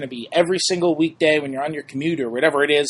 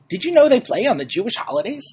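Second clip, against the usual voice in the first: put-on stereotypical Jewish mom accent, pitched higher; Jewish mother accent; 8 semitones higher than usual. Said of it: "in my most stereotypical Jewish mother accent".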